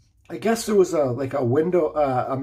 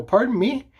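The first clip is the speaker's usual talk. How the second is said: taken aback; 7 semitones higher than usual. Retold or imitated. Acts out his startled reply.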